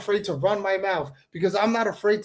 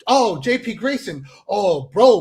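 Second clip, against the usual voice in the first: higher, louder hammed-up outrage; mock horror at what was said; mock scandalized critic; 5 semitones higher, 6 dB louder than usual. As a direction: ham up a clutching-pearls critic, all shock and scolding. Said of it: "someone goes".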